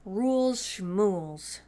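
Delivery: slow scoffing under her breath; dismissive thought. A narrator's reading. Sophie scoffing at the elf rules, slow and dismissive. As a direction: brush the rules off, slowly. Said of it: "thought Sophie".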